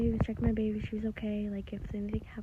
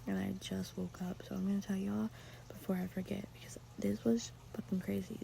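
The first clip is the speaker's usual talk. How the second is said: soft just-woke-up whisper; hushed morning whisper; 6 dB quieter than usual. Real, not acted.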